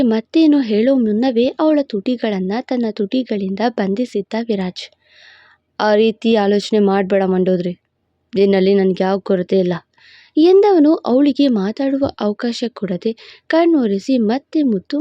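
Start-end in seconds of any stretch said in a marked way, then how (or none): 5.8-9.7 lower, commanding male lead; a proud, possessive lover laying claim; possessive hero voice. Acted. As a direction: hero boasting to his beloved in a lower voice. Hero reassures her.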